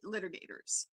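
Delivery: ordinary talk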